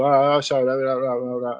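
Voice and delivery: put-on a light burst of thick local Welsh accent; reverting home accent. Lapsing into home accent with his brother, garbled Welsh patter. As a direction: run the words together in a garbled home accent. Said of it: "it just kind of reverts back to".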